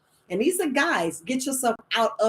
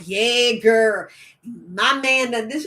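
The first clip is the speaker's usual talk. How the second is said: louder mock girlfriend on the phone; gossiping caller; 3 dB louder, slower than usual. Friend calling to complain about her man, mock chatty. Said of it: "somebody calling".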